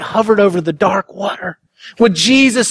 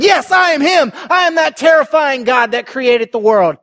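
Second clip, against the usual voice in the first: ringing proclamation; 5 semitones higher than usual. Acted. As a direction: declare it like thunder from the pulpit. Voicing Jesus, shouted.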